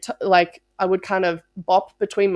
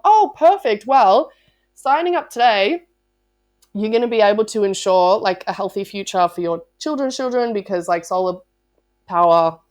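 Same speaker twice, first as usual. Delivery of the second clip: a salesperson seizing the opening; eager pitch; 3 dB louder than usual. Retold or imitated. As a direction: jump in with bright sales enthusiasm. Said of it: "continue the pitch".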